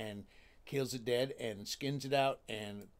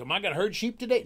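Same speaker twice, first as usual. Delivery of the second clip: eager; 7 semitones higher, 11 dB louder, faster than usual. Acted. Jack eager.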